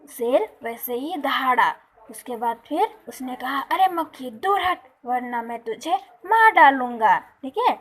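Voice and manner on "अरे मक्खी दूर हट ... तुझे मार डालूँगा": angry lion threat. Acted.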